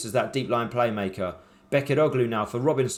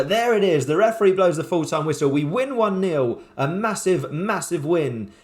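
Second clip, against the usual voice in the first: excited celebration; 4 semitones higher than usual. Real, not acted. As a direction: let the win burst out, slowing on the score. Full-time whistle, his team wins.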